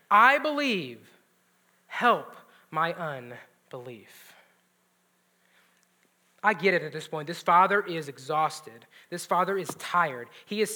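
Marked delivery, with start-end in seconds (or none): 0.1-4.3 crying out. Retold or imitated. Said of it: "the father of the child cries out".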